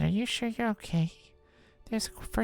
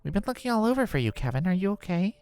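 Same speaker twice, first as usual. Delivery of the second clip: higher, hurried concern; concerned friend; 13 semitones higher, faster than usual. Acted. Friend who searched everywhere asks Kevin, concerned. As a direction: ask it in a worried rush. Monica worried for lost Kevin.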